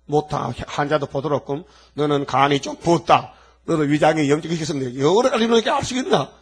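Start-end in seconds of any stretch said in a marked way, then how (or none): 1.9-6.3 mock doctor. Voicing a doctor's diagnosis.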